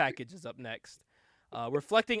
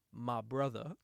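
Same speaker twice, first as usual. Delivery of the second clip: mild mock whisper; 10 semitones lower, 10 dB quieter, slower than usual. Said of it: "he goes".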